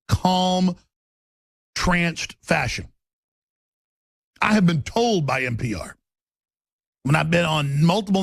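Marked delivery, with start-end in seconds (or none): 0.1-2.9 tranced. Shown as a demonstration. Describing sedate NPR delivery.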